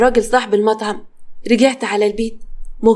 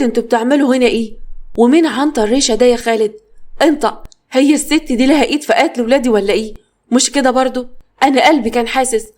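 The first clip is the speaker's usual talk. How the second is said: angry. Acted. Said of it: "وهي متعصبة".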